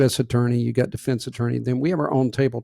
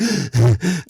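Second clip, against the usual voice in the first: heaving gasp; 5 dB louder than usual. Retold or imitated. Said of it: "I'm gonna walk in heaving".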